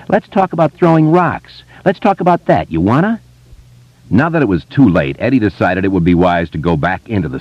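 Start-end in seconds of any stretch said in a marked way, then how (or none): 0.1-3.2 high, sneering taunt; bully taunting. A narrator's reading. Henry taunting Eddie about the rocks, high sneer. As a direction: needle him like a schoolyard bully. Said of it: "Henry said".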